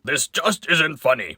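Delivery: a touch of panicky protest; alarmed pumpkin. Acted. Pumpkins horrified by Christopher's display, distressed. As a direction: object in mock distress.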